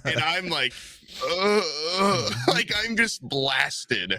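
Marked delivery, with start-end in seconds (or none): 1.3-2.3 dazed groan. Retold or imitated. Acts out being blasted.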